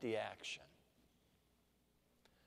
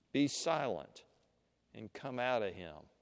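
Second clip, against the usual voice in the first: understated, calm order that drops lower at the end; calm command; 5 semitones lower than usual. Acted. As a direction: command it calmly, without raising your voice. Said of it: "turns to the man and calmly says".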